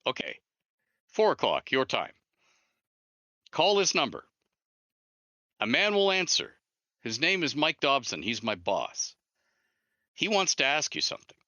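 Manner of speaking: caller's voice. Retold or imitated. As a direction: lift the voice and lay out the plan. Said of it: "He goes".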